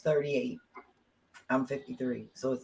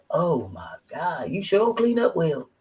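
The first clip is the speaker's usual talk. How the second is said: amazed admiration; 3 semitones higher, slower than usual. Retold or imitated. Retelling his slow admiring compliment.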